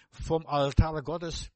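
"Vom Altar Gottes" drawn out very slowly; slow emphatic answer. Shown as a demonstration. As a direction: lay each word down slowly and weightily. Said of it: "wo die Ströme herkommen?". („Vom Altar Gottes“ sehr langsam und gewichtig)

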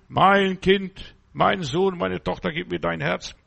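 God calling. Acted. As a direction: call out as God, then soften. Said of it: "Gott redet aus der anderen Dimension".

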